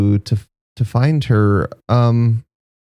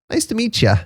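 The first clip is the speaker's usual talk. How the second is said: friendly greeting; 10 semitones higher, faster than usual. Acted. Sal introduces himself.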